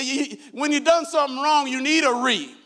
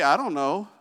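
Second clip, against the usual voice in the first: fake innocence; 6 semitones lower than usual.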